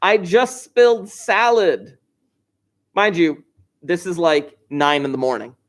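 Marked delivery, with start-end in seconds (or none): 0.0-2.0 put-on slow, drawn-out little kid's call; mock toddler yell. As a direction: lightly imitate a two-year-old calling out. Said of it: "She yells".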